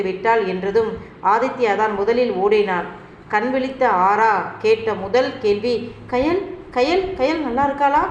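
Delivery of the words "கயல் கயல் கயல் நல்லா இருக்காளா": calling out a name, higher and anxious; frantic, urgent asking for her friend. Acted. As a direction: woken patient anxiously calling for Kayal. Waking patient asks anxiously.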